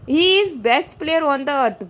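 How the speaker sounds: slow, deliberate sentence reading; teacher reading the sentence slowly; slow dictation read. Shown as a demonstration. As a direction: read each word out slowly for students. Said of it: "reading exam sentence slowly".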